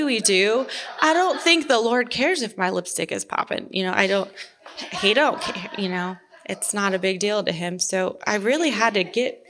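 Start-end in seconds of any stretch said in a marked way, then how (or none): 3.7-6.2 laughing. Real, not acted. Laughs while joking about God.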